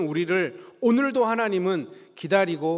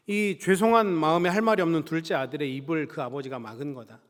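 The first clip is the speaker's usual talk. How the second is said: normal talking voice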